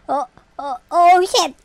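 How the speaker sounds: usual speaking voice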